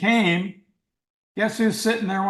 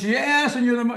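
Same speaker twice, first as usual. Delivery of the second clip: higher, louder, thrilled burst; like he's caught you out; excited exclamation; 6 semitones higher, 4 dB louder than usual. Retold or imitated. Chairman jabbing finger at the persistent sculptor, excited and higher.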